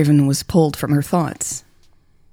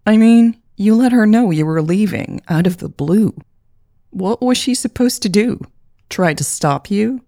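exasperated; 6 semitones higher than usual. A narrator's reading. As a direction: press her hard, exasperated. Sister presses, exasperated.

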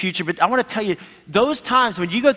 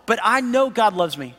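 higher, earnest plea of faith; pleading Job; 6 semitones higher than usual. Retold or imitated. Suffering Job answering his accusing friends, higher and pleading. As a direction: cry out your trust, raised and pleading. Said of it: "Job's just like".

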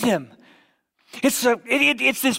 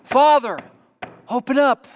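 son pleading; 3 semitones higher, 3 dB louder than usual. Acted. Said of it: "allowed the son to beg and plead".

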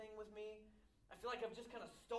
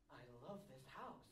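possessive outburst; 8 semitones higher, 10 dB louder than usual. Retold or imitated. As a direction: grow from a hushed sigh to a childish yell. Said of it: "You go".

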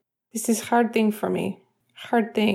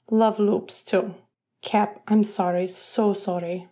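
put-on halting Russian accent; 2 semitones higher than usual. Evgeny confessing to his captain, halting Russian accent. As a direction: struggle to get the words out in a Russian accent.

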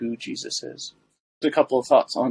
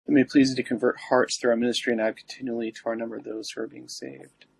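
prayer; faster than usual. Acted. Recites the litany.

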